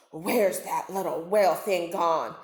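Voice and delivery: a hungry shark purring to himself; sly shark thinking. Acted. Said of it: "he wondered".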